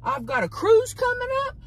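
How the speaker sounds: high-pitched giggly rant; laughing high rant. Real, not acted. Laughing rant about hydration.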